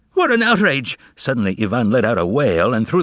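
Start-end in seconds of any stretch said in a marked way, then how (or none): 0.1-1.0 outraged cry. Acted. Ivan furious on the phone.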